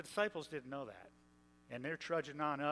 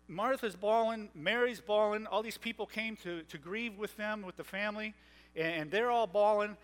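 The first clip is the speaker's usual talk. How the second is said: rising excitement; 5 semitones higher, 6 dB louder than usual. Real, not acted. Preacher builds on mourners bawling.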